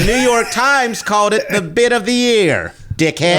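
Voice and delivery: high-pitched comic outrage; playfully offended comeback; mock-indignant boast. Mock quarrel defending own joke.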